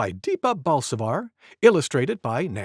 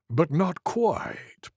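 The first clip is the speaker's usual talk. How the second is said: purring; 3 dB quieter, much slower than usual. Acted. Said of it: "purred a low voice".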